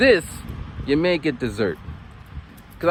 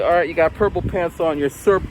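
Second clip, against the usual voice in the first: put-on teacher gives the boy a playful name; impatient naming; 4 semitones higher than usual. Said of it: "So I'm like".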